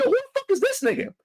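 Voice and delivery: high retold outburst. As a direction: fling it out high and indignant.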